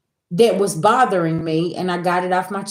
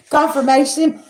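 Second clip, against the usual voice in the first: laughing through the word; 7 semitones higher than usual. Real, not acted. Laughing at sign.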